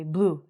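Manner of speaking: "blue" as one syllable, bloo, nothing after the oo; silent E. Shown as a demonstration. Teacher repeating the correct form, "blue" as a single bloo. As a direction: say "blue" with the final E unspoken. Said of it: "The E is silent".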